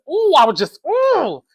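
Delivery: high exasperated "ooh"; too upset to finish the thought; worked-up upset. Real, not acted. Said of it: "I'm just so upset with you".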